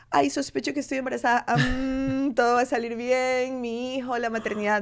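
fast, high, breezy mock calm with a laugh; mock serene. Mocking a dreamy pregnant girl, breezy and high. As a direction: send up the idea that she was all calm about it. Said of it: "no es que".

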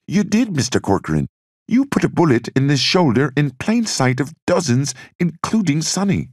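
high, strained voice of a man in despair; a haunted man reliving the shot; anguished Bobby. Acted. Bobby agonizing over shooting Vito.

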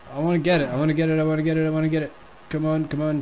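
eager, urgent repeating; desperate to grab it; excited. Real, not acted.

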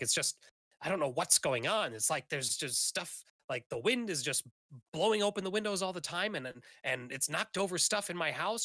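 put-on mildly frazzled old woman explaining herself; lightly acted bewilderment; flustered. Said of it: "she's flustered".

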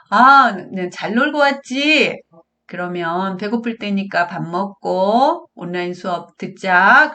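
cheerful, drawn-out welcome; pleasant, welcoming mom. Acted. Mother welcomes child back from playing, pleasant and unhurried. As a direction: greet your child brightly, easing into a request. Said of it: "엄마가 기분 좋게만 말하면".

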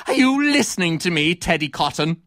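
indignant tirade rising to a high finish; theatrical denunciation. Acted. Critic renouncing theatre to actor Teddy Cotton, outraged. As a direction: accuse the actor, building to a melodramatic climax.

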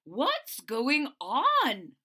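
loud slow teacher voice; stern teacher. Acted. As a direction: ask firmly as teacher. Teacher asks.

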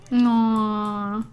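hiccuping mid word; a small hiccup in the voice. Real, not acted. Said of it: "I just hiccuped".

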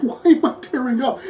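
the question repeated through a laugh; laughing, self-mocking repeat; laughing at herself. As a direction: giggle it out, amused at your own tears. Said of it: "And I'm like".

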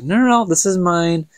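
playfully guard it like treasure; mock possessive protest. Acts out Fëanor refusing to share.

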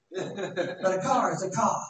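slow, light Boston accent dropping the R in "car"; mock Boston "car is a cah". Shown as a demonstration. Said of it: "people from Boston can't say an R".

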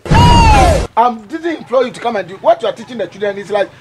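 angry scolding. Acted. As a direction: lay down the law to the teacher. Headmaster scolds the teacher.

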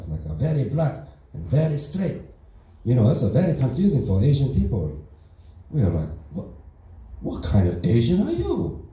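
put-on broken English in a light Asian accent; deadpan Asian-accent stand-up persona. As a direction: play the fresh immigrant with a mild Asian accent. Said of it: "that's not how I actually talk".

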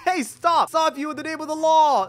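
high, loud play-cop shout; mock-heroic yelled command; calling out a halt. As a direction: shout it like a pretend police officer. Calling out to an in-game bank robber.

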